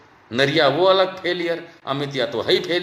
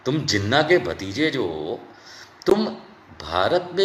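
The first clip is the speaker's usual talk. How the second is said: usual speaking voice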